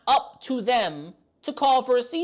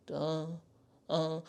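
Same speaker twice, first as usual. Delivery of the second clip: low, soft clueless grunt; lightly voiced slow-witted secretary; dumb secretary; 4 semitones lower, 9 dB quieter than usual. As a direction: play the secretary as dim and vacant. Voicing the senator's clueless secretary.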